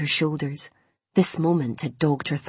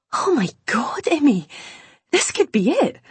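excited whisper; 10 semitones higher, 4 dB louder than usual. Acted. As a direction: whisper building to high excited cry. Mum excited whisper to shout.

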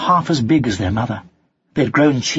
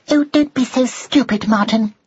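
high, irritated mouse scolding; hissed; 11 semitones higher than usual. A narrator's reading. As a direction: tell them off crossly in a high voice. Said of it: "hissed Drusilla".

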